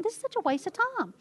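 mock scornful high voice, imitating her younger self; a put-on grumpy complaint; dismissive grumble. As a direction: sniff at it like a waste of time. Repeating her own past grumbling.

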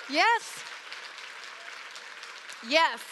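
a real shout of joy; joyful yes. Real, not acted. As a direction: cheer it out. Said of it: "celebrating answered prayer".

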